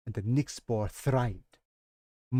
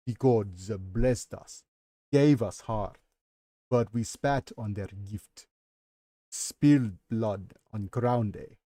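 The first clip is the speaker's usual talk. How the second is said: put-on Nigerian-Russian accent; 2 semitones lower, slower than usual. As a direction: blend a Nigerian accent into a Russian one on purpose. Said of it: "Nigerian, African accent while trying to have a Russian accent".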